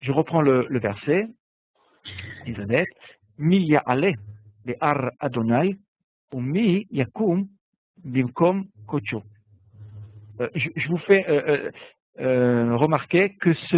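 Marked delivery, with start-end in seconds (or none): 3.4-9.2 measured, slow reading of the Hebrew verse; slow liturgical reading; slow Hebrew recitation. Shown as a demonstration. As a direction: lay out each Hebrew word deliberately.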